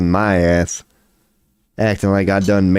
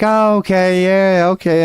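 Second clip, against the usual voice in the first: high, startled "oh, okay" at the birds; mock-amazed acceptance, pitched up; 10 semitones higher than usual. Streamer recalls seeing ten birds, startled okay. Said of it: "I'm just like".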